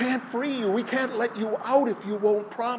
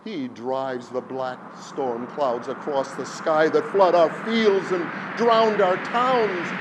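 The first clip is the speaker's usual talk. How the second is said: high, loud frantic crowd cry; people crying out; 6 semitones higher, 9 dB louder than usual. A narrator's reading. Villagers warn Silver Hands of the wind, loud frantic cry. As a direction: cry out in desperate warning. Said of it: "the people cried in one voice".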